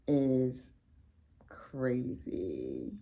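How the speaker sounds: low breathless whisper of awe; awed whisper. Real, not acted. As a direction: whisper it, stunned. Awed on holding the book.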